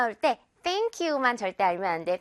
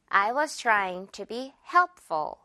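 slow demo; much slower than usual. Shown as a demonstration. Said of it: "한 번 더".

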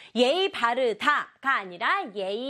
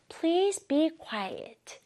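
slow, measured model phrase; slow demonstration; 3 semitones higher, 3 dB quieter, much slower than usual. Shown as a demonstration. Teacher repeats it once more for pupils, slowly. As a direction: draw the phrase out for learners. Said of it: "천천히 말해볼게요".

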